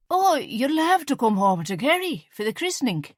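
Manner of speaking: words slurring from wine; a little drunk, loose tongue; tipsy slurring. A narrator's reading. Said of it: "her words slurring slightly".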